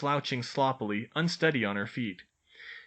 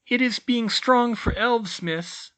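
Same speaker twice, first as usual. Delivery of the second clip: elf voice; 11 semitones higher, 6 dB louder, slower than usual. A narrator's reading. Elf teacher.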